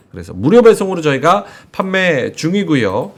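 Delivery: upbeat live sales pitch, key words stretched; conversational host-read commercial; sponsor ad read. Acted. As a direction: pitch the product to viewers.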